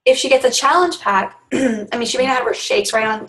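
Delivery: strained, fading voice; losing voice. Real, not acted. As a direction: talk through a failing voice. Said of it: "I'm, like, losing my voice or something".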